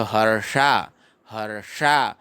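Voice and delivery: हर्षा in two beats, har-shaa, long last vowel; retroflex ष. Shown as a demonstration. Teacher fixing the tricky ष, slow and careful. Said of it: "ऐसे पढ़ेंगे".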